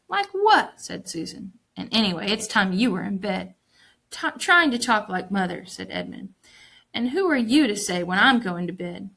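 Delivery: put-on reading a children's novel aloud to the class; story narration. A narrator's reading. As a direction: tell the story clearly, lightly voicing each child.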